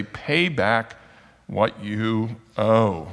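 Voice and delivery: slow, deliberate retold demand; choking demand. Servant choking his fellow servant over money, slow menacing demand. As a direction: demand it word by word, drawn out. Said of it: "begins to choke his fellow servant".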